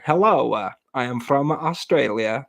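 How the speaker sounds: deliberately unconvincing, stilted fake Australian accent; mock Australian accent. Joker annoying people with the same accent, mock Australian. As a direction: joke foreign accent passed off as Australian.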